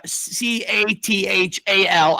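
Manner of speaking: letter by letter, slow and deliberate; careful spelling for the audience; spelled out slowly. Shown as a demonstration. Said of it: "It is spelled".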